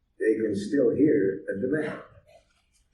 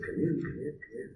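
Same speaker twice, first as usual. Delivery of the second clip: gentle welcome; 5 semitones higher, 9 dB quieter than usual. Retold or imitated. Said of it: "I said".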